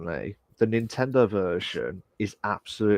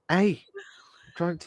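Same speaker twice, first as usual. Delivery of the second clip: excited high energy; 8 semitones higher, slower than usual. Real, not acted. Playful high energy exchange.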